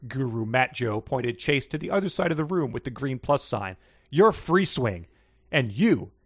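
lively read-aloud with small character voices; story reading. Acted. Reading a fanfic excerpt to the co-host, lively read-aloud. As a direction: read the silly story to your co-host, playing it up.

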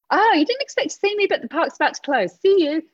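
high, loud jokey ambush; mock cheery surprise. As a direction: pop out with a singsong gotcha. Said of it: "sprang out of the bushes ... and went".

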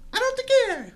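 high, careless "I don't care"; nonchalant shrug. Retold or imitated. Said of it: "and he's like".

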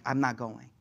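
low, soft refusal; quiet refusal. Acted. Isa declining to intercede, quiet and low. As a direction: decline softly, dropping the pitch.

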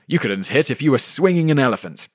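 fired-back retort. Acted. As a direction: fire a mild retort back at a heckler. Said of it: "Medwick supposedly fired back".

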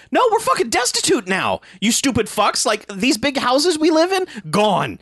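hammed-up angry parent; mock parent rant. Parents ranting, retold mock quote.

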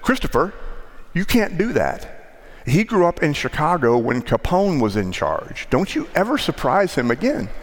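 scolding grandmother. Retold or imitated. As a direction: imitate grandma fussing at him. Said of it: "She said".

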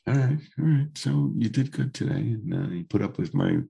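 hoarse, froggy voice; gravelly voice. Real, not acted. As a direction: talk through a rough throat. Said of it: "you're very froggy".

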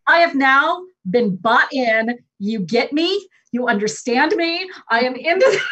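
high, loud, jubilant yes; hammed-up joyful surrender, near laughing tears; delighted buy-in. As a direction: cheer like you've just been won over. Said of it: "And I went".

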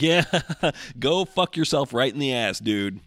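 laughing mock retort. Laughing retort told to listeners.

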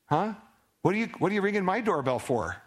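fast, high exasperated jab; God voiced exasperated. Preacher voicing God at the door, exasperated. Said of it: "And God says".

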